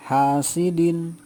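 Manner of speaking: "hasidin" drawn out slowly, the final n crisp and unnasalised; clear izhar recitation. Shown as a demonstration. Teacher modelling the reading for pupils, slow and clear. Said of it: "Bacanya seperti ini".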